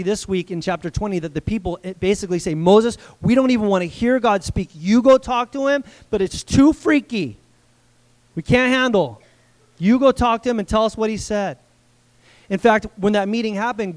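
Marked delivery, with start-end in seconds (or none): 2.5-11.6 louder, urgent plea of a scared crowd; frightened pleading. Acted. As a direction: beg Moses to go instead. Frightened people pleading with Moses.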